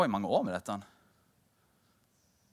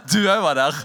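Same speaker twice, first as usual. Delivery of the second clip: loud repeat; 5 semitones higher, 13 dB louder, faster than usual. Real, not acted. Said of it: "Ikke, du også var der".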